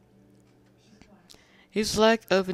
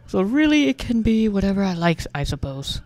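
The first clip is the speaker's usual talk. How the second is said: high, loud eager claim; excited; 5 semitones higher, 6 dB louder than usual. A narrator's reading. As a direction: blurt it out brightly. Character quote, high and loud.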